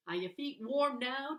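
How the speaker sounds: loud, high demanding question; gruff demand. A narrator's reading. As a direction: demand an answer, brusque. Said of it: "demands Perd".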